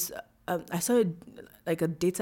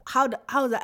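retold disbelief; 7 semitones higher, faster than usual. Founder voicing her shock at the numbers, baffled. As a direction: ask it as if you can't believe it. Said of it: "In my head was like".

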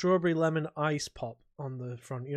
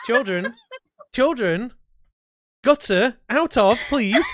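laughing, higher, mock scolding; 6 semitones higher, 6 dB louder, slower than usual. Real, not acted. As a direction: scold them through laughter. Scolding friends while laughing.

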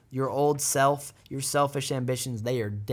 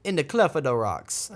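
a light touch of a Jamaican lilt; hint of Jamaican island accent; 2 semitones higher than usual. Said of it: "I sounded totally Jamaican in there".

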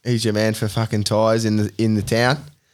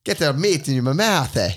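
put-on Italian accent; 3 semitones higher than usual. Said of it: "Carradale meats in Italian".

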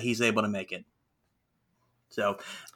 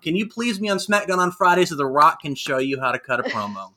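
exasperated plea; 4 semitones higher, 4 dB louder than usual. Retold or imitated. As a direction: beg him in frustration. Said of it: "And I'm like".

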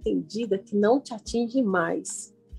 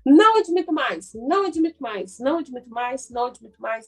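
emphatic declaration; 3 semitones higher than usual. Shown as a demonstration. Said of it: "você tem que falar".

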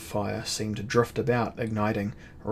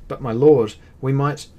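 protest; 4 semitones higher, 10 dB louder than usual. A narrator's reading. Captain protests, cut off.

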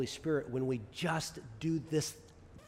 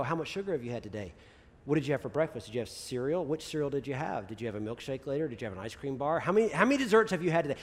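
quizzing mom; faster than usual. Retold or imitated. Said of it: "she's gonna go".

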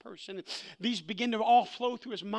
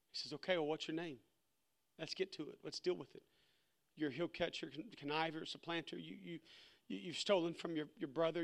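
much softer, low, intimate retelling; hushed storytelling; 3 semitones lower, 5 dB quieter than usual. Acted. Preacher retelling the exhausted Jacob and the Lord, hushed and soft. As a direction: draw them in close, quietly.

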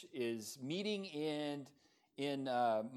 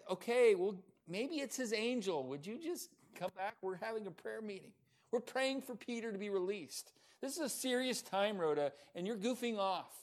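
higher-pitched mock reproach; exasperated scolding; 6 semitones higher than usual. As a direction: chide her for disrupting prayer. Group scolding Rhoda, exasperated.

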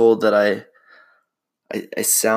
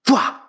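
mock jump-scare; 3 dB louder than usual. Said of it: "stay really still and just".

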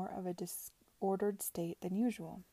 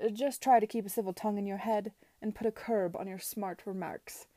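curt. Acted. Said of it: "she said curtly".

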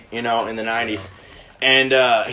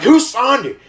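high-pitched imitation of an alarmed dad; acted-out indignant outburst; freaked out and mad; 7 semitones higher than usual. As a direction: demand it in mock panic, pitch shooting up. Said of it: "freaked out and fucking mad".

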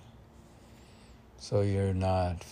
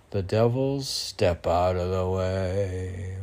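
poem recitation. Acted. Poet reading his mystic verse to the host, intoned. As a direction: intone each line like a spell.

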